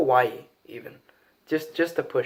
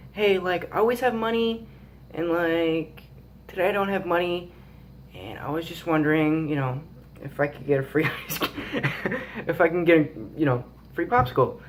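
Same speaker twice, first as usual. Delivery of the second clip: put-on higher, pleading kid voice; sweet-talking kid; 3 semitones higher than usual. Kid begs the ice cream man for a free popsicle, pitched up and pleading. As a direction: ask nicely like a hopeful child. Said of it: "I'm just like".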